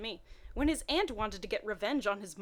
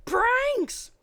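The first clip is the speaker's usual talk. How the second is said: much higher and louder burst; excited exclaim; 14 semitones higher, 10 dB louder than usual. Acted. Narrator answering her own question with a gleeful shout. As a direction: shout it out with glee.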